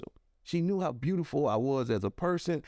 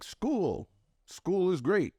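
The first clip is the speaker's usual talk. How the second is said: mock robotic speechmaker, stiffly recited; robotic speakers; 5 semitones higher than usual. Valedictorians addressing a teachers' convention, imitated as robots. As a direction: imitate over-rehearsed honor students reciting. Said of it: "like robots".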